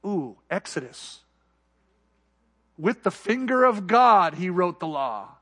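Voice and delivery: slow, hushed realization; musing slowly to himself; critic's thought. Retold or imitated. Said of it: "any one of those critics was thinking".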